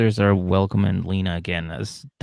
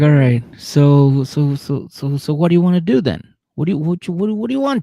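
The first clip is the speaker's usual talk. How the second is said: mock girlfriend; 7 semitones higher, 6 dB louder than usual. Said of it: "she's like".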